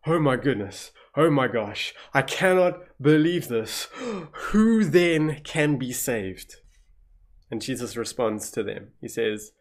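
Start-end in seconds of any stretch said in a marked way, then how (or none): 0.1-6.6 shocked disbelief. Retold or imitated. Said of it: "They're like".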